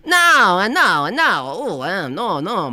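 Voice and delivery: bursting out in fake alarm; hammed-up no. Joking with friends, a loud high mock protest. Pretend refusal in put-on voice.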